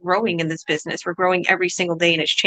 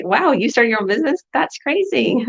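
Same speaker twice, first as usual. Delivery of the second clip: high, impressed "Wow" with a higher pitch; mock amazed reaction; 5 semitones higher than usual. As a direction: play someone amazed by a new business. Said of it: "It should be".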